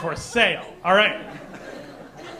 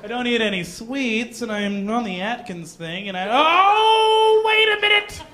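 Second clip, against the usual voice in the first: put-on frustrated girl talking to herself, building to a high loud realisation; girl in front of a mirror, building to a loud discovery; 4 semitones higher, 5 dB louder than usual. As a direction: rant to the mirror, then the penny drops. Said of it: "some girl in a room ... being like".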